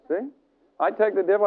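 usual speaking voice

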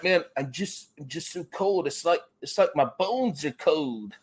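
light imitation of a Minnesota accent. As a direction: lightly mimic a cold buddy's Minnesota accent. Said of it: "in his Minnesota accent".

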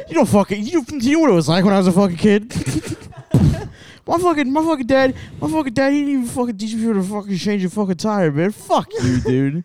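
lightly voiced drunk jock ranting about his dad; a hint of a sloppy washed-up athlete griping; drunk bitter Gronk rant.

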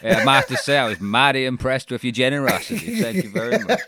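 laughing, lightly voiced Southern American; Southern American accent. Imitating Laurie thanking Peter Jackson in a Southern American accent. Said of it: "love that style of American".

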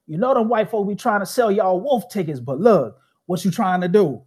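a hint of an elderly uncle calling him young blood; imitating old uncle. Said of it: "that is literally how he talks".

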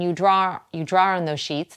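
Boston accent on draw. Real, not acted. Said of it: "There's my Boston accent".

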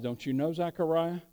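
hushed surprised question; quiet surprise. Acted. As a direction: drop the voice, almost tender disbelief. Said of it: "and he's surprised".

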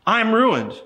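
preacher voices Isaiah before God, a touch of lament; Isaiah's lament. Retold or imitated. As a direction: lightly voice a prophet's despair. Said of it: "I cried".

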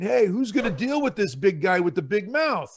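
a put-on sideline voice, looking for someone else; lightly lampoon a shirker dodging the fight; mock timid bystander. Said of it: "sitting on the sidelines looking around saying".

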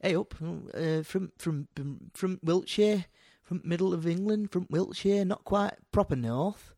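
tentative northern-tinged Midlands English; Midlands English accent. Shown as a demonstration. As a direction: feel your way into a Wiltshire-Midlands accent. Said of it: "pretty sure Wiltshire is like, yeah, Midland".

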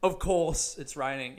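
drawn-out, mildly dismissive, slow; like it's obvious, said slowly; slow dismissive dad. Retold or imitated. Dad shrugging off the rain news, slow and dismissive. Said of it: "his attitude is like".

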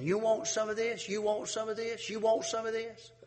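threatening gunman. Retold or imitated. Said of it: "something pointed that man's head saying".

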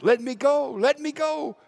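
high, loud pleading cry. Retold or imitated. Ulysses begging his sailors to free him, loud cry. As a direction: beg to be let free, rising each time. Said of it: "he cried out".

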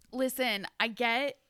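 mock confrontation. Imagined talk to the bully being human one-on-one, mock confrontation. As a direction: act out an emphatic, half-laughing reproach.

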